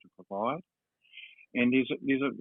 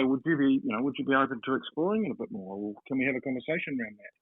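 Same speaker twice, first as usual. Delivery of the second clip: soft approach; 2 semitones higher than usual. Shown as a demonstration. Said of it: "That's a lot softer than".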